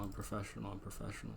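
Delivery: calm yourself down, fading to a murmur; repeating it under the breath like a mantra; quiet self-reassurance. Shown as a demonstration. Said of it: "I swear".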